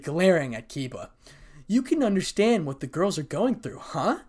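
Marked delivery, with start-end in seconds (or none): 1.7-4.2 dark question, pitched up and loud; loud, high, accusing huh. A narrator's reading. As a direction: press the point darkly, voice raised. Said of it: "said Issei darkly".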